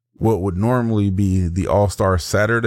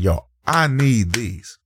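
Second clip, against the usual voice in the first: slow, drawn-out plea; emphatic plea; slower than usual. Retold or imitated. Customer begging a seller for shoes, emphatic plea. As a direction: stretch it out like you must have them. Retold pleading phone call.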